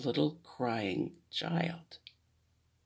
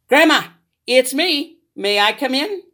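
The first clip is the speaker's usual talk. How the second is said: put-on higher little girl voice; sweet girl at the door; 9 semitones higher, 7 dB louder than usual. Little Red knocks at grandma's door, higher girl voice.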